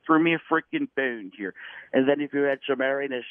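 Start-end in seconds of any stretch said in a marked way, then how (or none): 0.1-1.5 slowed, lightly raised Dr. Evil; a mild Dr. Evil whine; Doctor Evil. Retold or imitated. Pitching Downey up into a light Doctor Evil. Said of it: "it becomes Doctor Evil".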